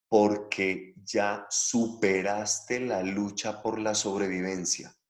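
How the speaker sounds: dicho despacio, con pausas para explicar; deliberate, spaced-out explanation. Shown as a demonstration. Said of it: "lo voy a decir despacio". (con calma, marcando cada parte)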